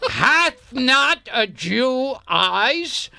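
slow hammy bard delivery; theatrical Shakespeare. Acted. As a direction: stretch the line like a stage actor. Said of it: "I like how you do that iambic pentameter".

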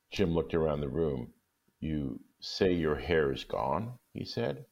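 measured storytelling read; calm storybook reading; story narration. A narrator's reading. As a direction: tell it gently, like reading a classic aloud. Reads the story aloud.

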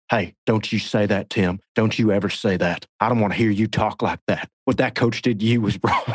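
lightly voiced scolding Southern dad; a hint of Buddy's stern talking-to; mild Buddy Garrity impression. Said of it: "you pull the car over and you go".

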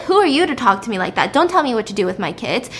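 fast, mildly angry retold retort; pissed off. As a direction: act affronted, rattling it out quickly. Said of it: "He's just pissed".

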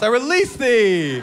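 slow, lofty medieval pronouncement; repeating the noble release; mock knightly. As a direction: bestow it grandly. Repeats archaic line.

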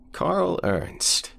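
put-on high, slow, quavering old man. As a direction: croak it like a frail old man.

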